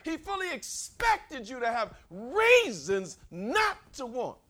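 high, loud, slowed shouting; preaching at full force. Acted. Preacher proclaiming God's awareness to the congregation, shouting. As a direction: drive the point home with full fire.

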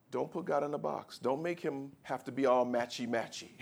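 ordinary delivery

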